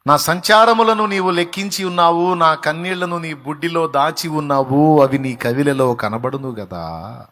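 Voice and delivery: loud impassioned scripture reading; preaching the psalm. Acted. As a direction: proclaim the verse, then slow down. Quotes psalm while preaching.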